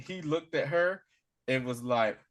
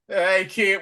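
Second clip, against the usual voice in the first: calling out; 6 semitones higher, 9 dB louder than usual. Retold or imitated. Retold clones calling out to kids.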